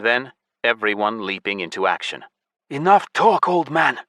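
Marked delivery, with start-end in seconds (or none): 2.7-4.0 high, loud roar; bear roar. A narrator's reading. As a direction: roar it like a beast. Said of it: "Mogwai the bear roared".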